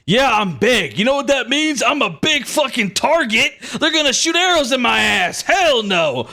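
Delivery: high-pitched, panicked protest; yelling out. Acted. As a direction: cry out in indignant refusal. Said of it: "He, like, yells out".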